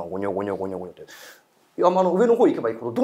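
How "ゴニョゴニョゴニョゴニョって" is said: fast, soft mumbling noise; a quick hushed murmur; muttering voices heard in the bushes; mimicked murmuring. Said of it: "変な声聞こえてくんな".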